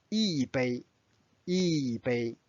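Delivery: 一杯 with a falling 一 before level 杯; fourth tone on 一. Shown as a demonstration. Teacher applies the rule to 一杯, fourth tone on 一. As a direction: let 一 fall, then hold 杯 in 一杯. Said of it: "becomes the fourth tone".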